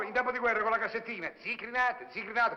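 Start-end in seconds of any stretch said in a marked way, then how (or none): 1.4-2.1 cigarette seller crying out his wares, pitched up; street vendor's call. Retold or imitated. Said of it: "con la sua voce nei timpani". 2.1-2.6 street vendor's call. Retold or imitated. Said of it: "con la sua voce nei timpani".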